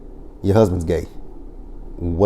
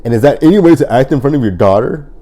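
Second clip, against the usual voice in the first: lightly voiced scolding Jackie; 5 semitones higher, 5 dB louder than usual. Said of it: "Jackie's like".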